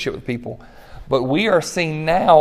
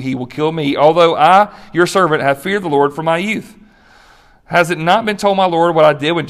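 measured, solemn Bible reading to the congregation; scripture reading. Acted. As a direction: read the passage like a preacher giving it weight. Pastor reads scripture passage aloud.

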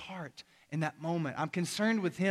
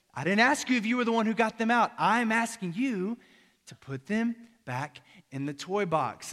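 exasperated dad; 4 semitones higher, 3 dB louder than usual. Retold or imitated. Dad answering son's excuse.

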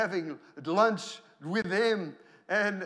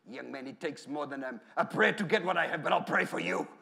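imitated German accent, rising in level to the end; lightly put-on German accent of an older preacher; 2 semitones lower than usual. Evangelist answering a young man's request for prayer, German accent. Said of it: "with his German accent".

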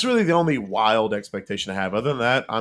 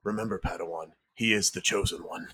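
lightly voiced solemn mentor, a little hushed; Liam Neeson; 3 dB quieter than usual. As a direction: gently remind a pupil, as a ghostly master. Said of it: "do a little Liam Neeson voice here".

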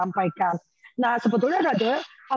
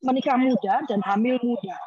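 usual speaking voice

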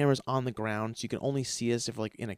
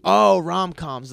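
drawn-out mock condescension; 4 semitones higher, 8 dB louder, much slower than usual. Co-star dismissing his rom-com dream, smug drawl. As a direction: stretch out rom-coms, faintly sneering.

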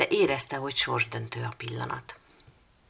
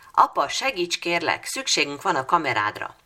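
loud breathless begging, pitched up; urgent plea; 3 semitones higher, 7 dB louder than usual. Acted. Sophie bursting in asking her father for help, loud urgent plea. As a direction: beg dad urgently.

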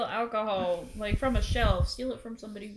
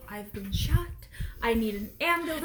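soft, understated injury report; mock calm report; 7 dB quieter than usual. Someone shot asking for help, mock calm. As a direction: play it unbothered and quiet. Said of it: "somebody just call me".

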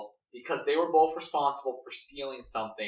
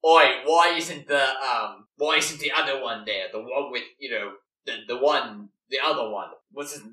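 casual, lightly Australian voice, fumbling for a name; Shark's Australian accent. Acted. Shark asking where the missing friend is, in a lightly Australian accent. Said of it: "how the character voice is".

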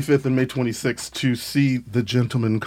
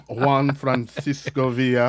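savoring the name; slower than usual. Real, not acted. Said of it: "I love how you say my name".

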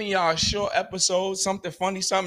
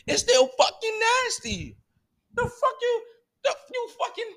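higher, exasperated outburst; mock outraged yell; 12 semitones higher than usual. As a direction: blow up in comic disgust. Escalating rant about nasty food.

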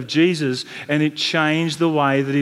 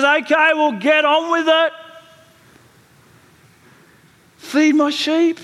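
firm insistent command; 10 semitones higher than usual. Acted. Jesus' firm third command.

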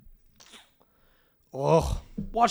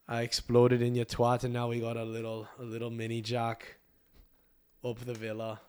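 put-on quiet, vague English accent; Jack Grealish; 2 semitones lower, 3 dB quieter than usual. Comic playing Grealish bragging, in a loose English accent. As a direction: do an unplaceable English accent, trailing off softer. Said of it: "I don't know where I'm from in England".

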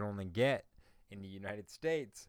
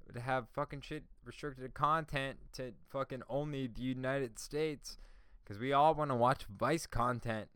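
loud, higher, exasperated shouting; letting the network have it; heated rant; 4 semitones higher, 5 dB louder than usual. Real, not acted. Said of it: "I was really getting on my fucking nerves".

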